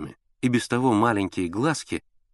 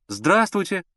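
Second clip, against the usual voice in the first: higher, louder hello toward the bedroom; loud greeting; 10 semitones higher, slower than usual. A narrator's reading. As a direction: greet her loudly through the wall. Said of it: "громко ответил Миша". (громкое приветствие)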